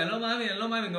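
excited disbelief. Retold or imitated. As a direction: gush it out in shock.

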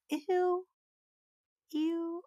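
disgusted ew. Real, not acted. Disgusted by the line.

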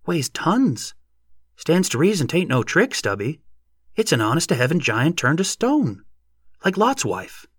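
high, sing-song country voice; excited yokel making the case; insistent neighbor. A narrator's reading. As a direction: argue earnestly with pitch bobbing high.

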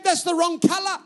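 put-on high, loud Bulgarian-accented objection. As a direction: imitate an insistent wife with a Bulgarian accent. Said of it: "in her little Bulgarian accent".

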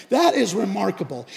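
bolder. Retold or imitated. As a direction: throw it boldly in their faces. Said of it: "he's just getting bolder".

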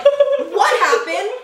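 high, drawn-out mock teacher question; teacher's demand. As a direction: draw it out like a teacher arriving on the scene. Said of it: "then my teacher came".

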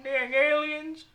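high, slow mock African accent. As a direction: stretch it in a caricatured African accent. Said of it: "is that the accent they have?".

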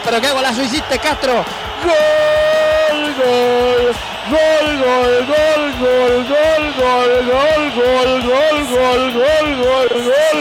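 frantic radio goal call; breakneck goal commentary. Acted. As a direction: scream the goal, rattle it off.

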